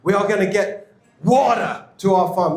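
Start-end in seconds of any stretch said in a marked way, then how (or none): 1.2-1.9 WATER with an American flapped t and clear r; put-on American pronunciation of WATER; American accent. Shown as a demonstration. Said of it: "say American to say them right".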